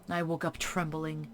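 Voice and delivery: soft ominous whisper. Acted. A streamer whispering the narration's ending. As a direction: end the night in a hushed breath.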